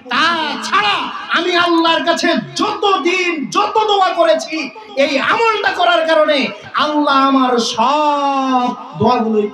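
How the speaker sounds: high, stretched preacher's delivery; impassioned preaching. Acted. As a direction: voice the baker's longing as a fervent preacher. Preacher voices baker's wish at full force.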